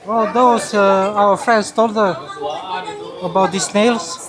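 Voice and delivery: loud, excited, drawn out. Real, not acted. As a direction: burst out with delight. Excited about the snails.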